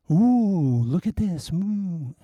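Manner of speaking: high, thrilled little squeal; delighted ooh. Pretend. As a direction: show off the treasure with glee. Showing off a collectible.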